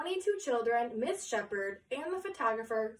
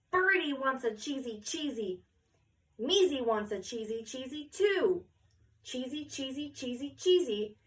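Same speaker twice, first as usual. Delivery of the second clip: begging photographer; 2 semitones higher than usual. Acted. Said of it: "then begged".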